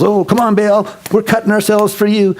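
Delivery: high-pitched imitation of desperate worshipers; strained-up plea, held high; mock pleading. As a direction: beg the god, hammed up. Acted false worshipers beg their god.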